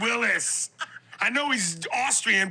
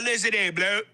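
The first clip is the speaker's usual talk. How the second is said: mock British accent. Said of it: "nothing macho to me about".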